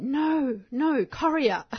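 drawn-out no, then "Korea" as KORR-ee-a; correcting pronunciation. Shown as a demonstration. Co-host correcting people, "Korea" said KORR-ee-a. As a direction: stress the first syllable of "Korea". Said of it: "I've heard people pronounce".

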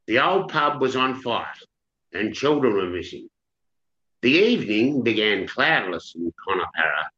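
measured reading of a dramatic chapter; story narration. A narrator's reading. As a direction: read it aloud like an author at a reading. Author reads chapter aloud.

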